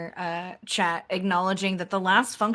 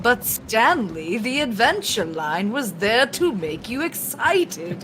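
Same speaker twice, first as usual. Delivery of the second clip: slow, loud mock narrator voice, lightly done; mock game narrator; 3 semitones higher, 4 dB louder, slower than usual. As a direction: tease like the game's narrator, drawn out. Mimicking the game's narrator.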